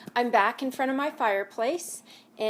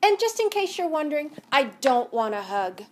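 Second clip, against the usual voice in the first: grumpy; 3 semitones higher, 5 dB louder than usual. Acted. Grumpy Hank.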